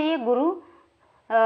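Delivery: slow, stretched अ; drawn-out vowel. Shown as a demonstration. Teacher showing the prolonged vowel sign. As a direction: stretch अ slowly over three beats. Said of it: "बोलते हैं इसको".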